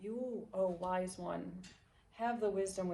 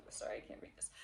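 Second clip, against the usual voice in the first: whispered aside; 6 dB quieter, faster than usual. Real, not acted. Aside while reading a card.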